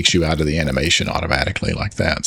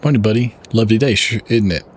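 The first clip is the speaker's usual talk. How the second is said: put-on Southern accent; 2 semitones higher than usual. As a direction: play a lightly Southern country uncle. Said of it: "I gotta do my southern voice".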